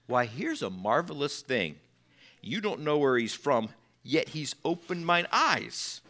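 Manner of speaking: hushed wonder. Retold or imitated. Healed man answers the leaders.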